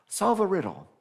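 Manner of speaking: a lightly voiced Sphinx setting a riddle; Sphinx's challenge. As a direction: tease the hero with the riddle. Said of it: "And the Sphinx goes".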